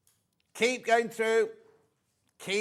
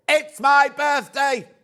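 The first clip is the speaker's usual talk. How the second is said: much higher, louder, slow excited squeal; squealing excitement; 9 semitones higher, 10 dB louder, slower than usual. Retold or imitated. Voicing a viewer celebrating her birthday, squealing. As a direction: squeal it like a thrilled birthday girl. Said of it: "She's gone".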